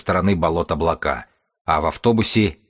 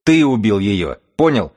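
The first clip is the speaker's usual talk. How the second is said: escalating yell; 3 semitones higher, 4 dB louder than usual. Acted. Chief screams for the bookman to shoot him, escalating.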